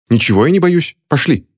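громче и выше, с вызовом; отрезать обиженно; задето. A narrator's reading. Кристина обижена упрёком. (Кристина отвечает на упрёк)

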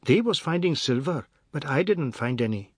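put-on high-pitched child's voice; eager little boy. Anand shows his father the coins, high boyish voice. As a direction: report it in a high boy's voice.

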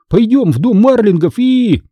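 high, eager urging; excited. A narrator's reading. Boy urging Hanna towards the Marlings' house, excited. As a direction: rush into the plan, left hanging. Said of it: "возбуждённо закричал я".

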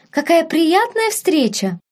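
high, drawn-out cordial greeting; effusive welcome. A narrator's reading. Aphrodite greeting a supposed friend, high and effusive. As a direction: stretch it out with hearty delight. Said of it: "радушно провозгласила Афродита".

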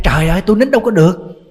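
a crabby granny shouting her complaint; mock angry yell. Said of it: "mà bà la rồi". (giọng bà già la lối)

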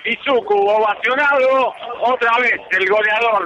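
high, thrilled co-commentator; excited commentary. Real, not acted. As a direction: gush about the goal. Co-commentator excited after goal.

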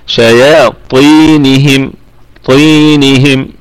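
"شياطينهم" slowly, with the "ee" after ط held long; natural madd. Shown as a demonstration. Teacher demonstrating the madd, "شياطينهم" slow with held vowels. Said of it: "والياء فيها مد طبيعي".

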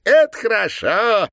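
put-on high, loud, gloating girlish cry; evil girl. A narrator's reading. Girl with the syringe gloating, high and loud. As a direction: gloat over him like a cruel child. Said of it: "Зло засмеялась девочка со шприцем".

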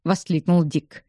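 plain reading voice

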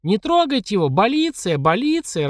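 mother's shriek. A narrator's reading. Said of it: "раздался мамин визг".

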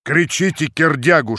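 ordinary delivery, nothing marked

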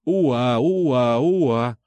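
wailing siren sound, drawn out; siren wail imitation. A narrator's reading. Narrator mimics approaching police sirens, wailing. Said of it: "завыли сирены".

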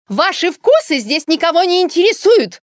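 high, loud screech; shrieking yell. Acted. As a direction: shriek at her rival in fury. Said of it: "визгливо выкрикнула". (визгливый выкрик)

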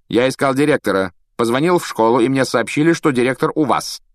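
bored aristocratic tone; Malfoy cold. A narrator's reading. Malfoy explaining to Dumbledore, cold superior.

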